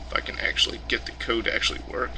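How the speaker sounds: fast, voiceless muttering to himself. Real, not acted. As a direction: mutter it under your breath, quickly. Frustrated muttering at code.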